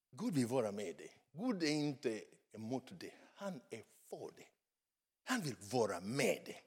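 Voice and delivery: soft, low, gentle assurance; tender reassurance. Real, not acted. Preacher telling listeners God is for them, tender.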